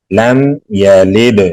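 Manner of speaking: "لم یلد" recited slowly with a gently held m; soft meem. Shown as a demonstration. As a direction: let the m in "لم" hum softly, no bounce. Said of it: "میم کو نرمی سے پڑھیں گے".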